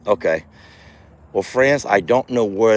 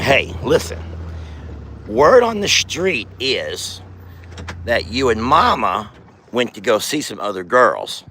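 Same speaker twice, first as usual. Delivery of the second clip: voicing Rita. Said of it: "what Rita's saying".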